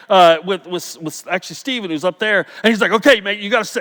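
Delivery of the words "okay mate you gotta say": lightly attempted Australian accent; a hint of an Australian accent. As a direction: imitate an Australian colleague, accent only half there. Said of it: "there was my Australian".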